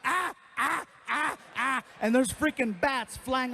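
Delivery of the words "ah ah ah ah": high staccato ah ah laugh; weird laughing imitation. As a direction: imitate the odd nervous crowd laugh. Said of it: "These guys are laughing".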